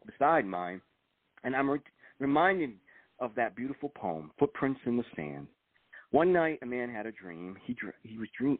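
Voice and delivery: measured read-aloud with pauses between phrases; book reading. Acted. Author shares his book's last paragraph with the host, measured reading. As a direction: read your own memoir passage aloud, phrase by phrase.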